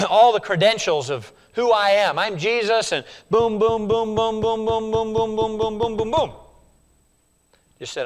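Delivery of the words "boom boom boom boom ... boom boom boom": steady chanted boom boom; rhythmic booms. Acted. Preacher mocking a long list of credentials, chanted. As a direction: tap out each boom evenly.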